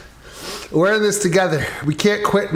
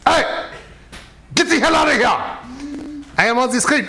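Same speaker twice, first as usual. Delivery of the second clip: french chef; 6 semitones higher than usual. Acted. Puppet yells at an intruder.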